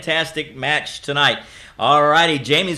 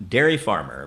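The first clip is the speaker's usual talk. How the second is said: dropped-pitch echo of the suggestion; much lower second call; low repeat; 9 semitones lower than usual. Real, not acted.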